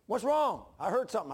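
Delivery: wife checking on a noise; wife calling out. Retold or imitated. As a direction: call out from the door. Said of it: "Linda, my wife ... says".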